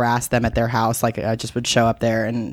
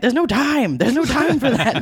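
higher, hurried brush-off; no time to explain, just come; mock urgent; 10 semitones higher than usual. Twelve-year-old stranded in Brooklyn rushing dad, hammed-up urgency.

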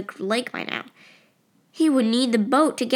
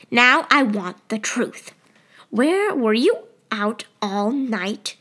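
stern demanding mother; slower than usual. Acted.

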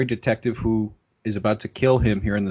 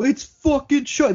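much higher, amazed outburst; excited exclamation; 14 semitones higher than usual. Retold or imitated. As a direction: blurt it like a starstruck fan. Gamers spotting Chucky in movie.

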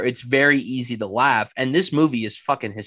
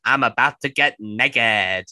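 imitating Daniel Craig's Southern accent, pitched way up; 6 dB louder than usual. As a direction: ham up a Southern accent with a squeaky, loud "So no peeking". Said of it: "Daniel Craig Southern accent".

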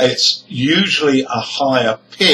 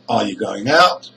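"Are you" short and weak, GO and OUT stressed; "going out" with strong GO, weak -ing, long OUT; 3 semitones lower than usual. Shown as a demonstration. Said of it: "Word one and two are unstressed".

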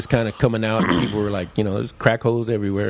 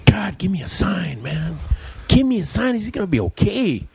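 choked up prayer; 7 semitones higher than usual. Real, not acted. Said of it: "I get a little choked up".

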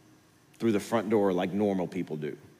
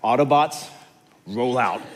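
higher, louder rallying call; rally the troops like a cartoon commander; battle cry; 4 semitones higher, 8 dB louder than usual. Leader launching the plan, louder rallying call. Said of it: "the guy's like".

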